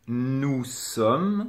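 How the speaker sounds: "nous sommes" slow, s of "nous" silent; no liaison. Shown as a demonstration. Teacher showing a case without liaison, slow demonstration. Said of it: "il n'y a pas de liaison".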